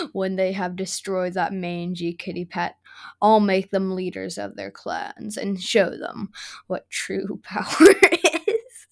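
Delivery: evil gloating with a laugh; villain gloating. Acted. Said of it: "mysterious quote".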